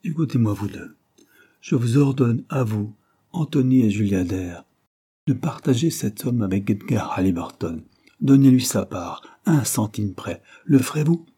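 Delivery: lightly voiced dying uncle, urgent; a hint of a feeble old man pressing his point. Dying man gives orders.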